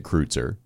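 Kreutzer as KROOT-ser; phonetic pronunciation. Shown as a demonstration. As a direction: say Kreutzer with an "oo" vowel. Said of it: "if you were to pronounce it".

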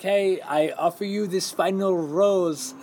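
slow, drawn-out mock suitor; ceremoniously slow, lightly acted offer; Juan Pablo. Suitor offering the final rose to a contestant, slow mock ceremony. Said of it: "Juan Pablo's like".

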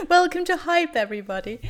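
high, loud mock British welcome; posh British accent. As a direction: open the show in exaggerated posh British. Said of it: "offending all of our U K listeners".

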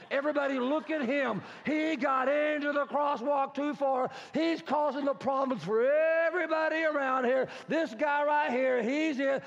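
high, loud mock accusation; public shaming honk. Car horn shaming driver in crosswalk, loud accusation. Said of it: "The honk of shame".

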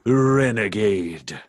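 very slow, drawn-out hero catchphrase. Acted. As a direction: stretch the word out for effect. Brash tries out the catchphrase.

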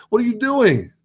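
very high, laughing disbelief; incredulous laugh. Retold or imitated. Scene: asking overpacked women on a train, laughing incredulous. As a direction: squeal it out in amused disbelief. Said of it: "And I'm like".

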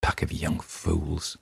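put-on slow, gruff old man's dismissal; a slow stubborn old-timer's scoff; stout grumble. A narrator's reading. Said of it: "Old Man Warner said stoutly".

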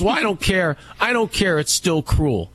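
high, insistent retold woman; huffy bystander, lightly voiced; woman at the ballfield insisting it's cruel, mildly mocked; mock indignant woman.

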